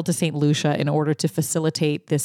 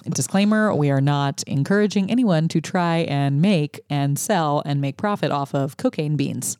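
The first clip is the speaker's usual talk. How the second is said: official lady voice; 4 semitones lower than usual. Acted. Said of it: "I put on my official lady voice real fast".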